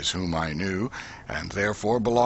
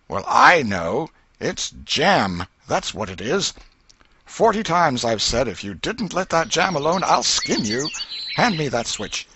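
louder, higher aunt's scold; scolding threat; 6 semitones higher, 4 dB louder than usual. A narrator's reading. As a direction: threaten him with the switch. Aunt threatens boy with switch.

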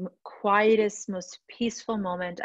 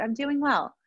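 quoted cheerful reply; 6 semitones higher than usual. Retold or imitated. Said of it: "I literally, I'll tell them".

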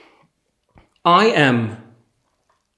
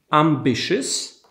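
ambitious said again slowly and carefully, each syllable clear; slow repeat; slower than usual. Shown as a demonstration. Teacher repeating ambitious slowly for students. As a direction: stretch out ambitious for learners to copy. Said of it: "I mamy ambitious".

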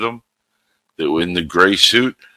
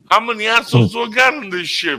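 high mock exasperated officer; 14 semitones higher, faster than usual. Quoting Dark Helmet.

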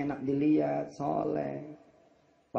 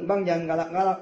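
wife pleading to husband; 2 semitones higher, 6 dB louder than usual. Retold or imitated. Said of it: "kalau dia ngomong sama laki".

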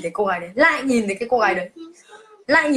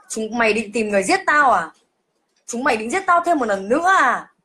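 retold teeth-gritted threat. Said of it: "nghiến răng nghiến lợi bảo là".

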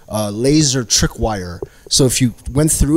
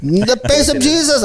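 awed believer; 12 semitones higher than usual. Retold or imitated.

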